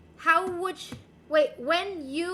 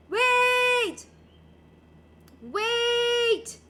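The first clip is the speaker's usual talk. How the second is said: higher, louder urgent wait; sudden loud wait; 6 semitones higher, 7 dB louder than usual. Real, not acted. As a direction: stop everyone, you just remembered. Suddenly remembering the baguette.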